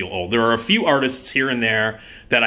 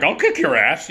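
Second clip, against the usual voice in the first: raised, cocky buddy voice; Joe Donatello; 5 semitones higher than usual. Acted. Buddy threatens director coming after him, cocky impression. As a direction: toss out a fighting threat. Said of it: "Joe's like".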